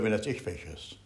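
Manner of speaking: ordinary delivery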